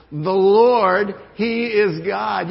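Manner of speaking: loudest, slow ringing shout; full shout. Shown as a demonstration. Preacher's final call with the crowd, full slow shout. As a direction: belt it out for the whole room. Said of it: "Say it one more time".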